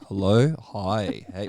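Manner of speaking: slow, low booming hello of a deep-voiced friend. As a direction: sink the voice low and drawl the hellos. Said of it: "very deep voice".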